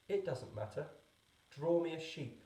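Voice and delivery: put-on a small boy brushing aside the excuse; little prince. A narrator's reading.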